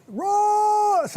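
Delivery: loud, high drawn-out yell of a name; wife yelling. Retold or imitated. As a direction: holler it from upstairs, long and high. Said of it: "yell my name".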